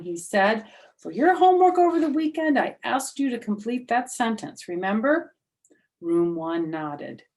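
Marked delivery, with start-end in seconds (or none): 1.0-5.3 lively teacher. Acted.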